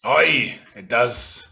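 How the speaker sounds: hint of a pirate accent on "Aye". Captain confirming the ship has cannons, pirate accent. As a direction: answer as a gruff-worded pirate accent. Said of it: "doesn't say in a Parish accent".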